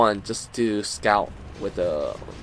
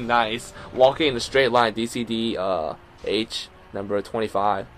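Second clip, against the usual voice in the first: play-by-play; 3 dB louder than usual. Acted. Live play-by-play of the match.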